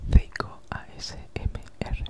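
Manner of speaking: normal talking voice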